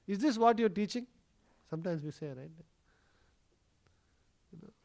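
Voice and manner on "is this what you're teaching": mildly indignant retold reproach; angry complaint. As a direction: lightly scold a mother, raising the pitch. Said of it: "they would get very angry and they would go complain".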